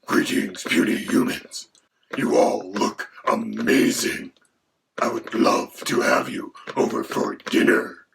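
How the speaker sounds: breathy whispered dragon voice. Acted. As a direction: hiss it like a hungry dragon. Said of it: "Quill the Dragon. Say hi, Quill".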